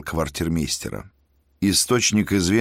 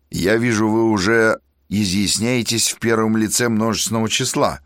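sarcastic; 4 semitones higher, 3 dB louder than usual. Acted. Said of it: "съязвил Козловский".

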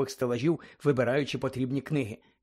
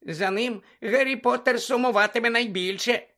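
high, slow squeaky elf voice; Dobby the house-elf squeaking at Harry; 8 semitones higher, 3 dB louder than usual. Acted. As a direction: squeak it like an anxious little elf. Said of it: "запищав Добі".

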